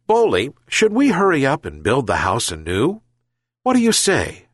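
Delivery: put-on eager, rising old man; enthusiastic. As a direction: pitch the idea brightly. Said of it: "enthusiastically suggested the old man".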